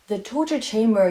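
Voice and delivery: loud, punchy "torture chamber"; loud excited exclamation; excited emphasis. Real, not acted.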